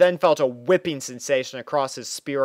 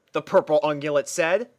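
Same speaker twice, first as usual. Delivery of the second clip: ordinary delivery, nothing marked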